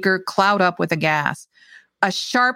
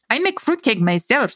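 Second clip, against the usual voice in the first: put-on higher-pitched proud old woman, Slavic accent; 5 semitones higher than usual. A narrator's reading. Old woman boasts of her baking, proud Slavic accent. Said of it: "she said proudly".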